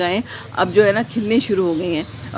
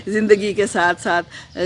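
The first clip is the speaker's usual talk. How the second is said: slow words through a light laugh; chuckle, then say it; slower than usual. Real, not acted. Laughs while rephrasing. (ہلکی ہنسی کے ساتھ)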